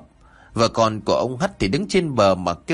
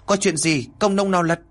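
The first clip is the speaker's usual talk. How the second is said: high-pitched questioning call; hô lớn; 7 semitones higher than usual. Acted. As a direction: village chief calling out through cupped hands, mildly raised. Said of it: "chắp loa lên miệng hô lớn". (hô hỏi, giọng cao)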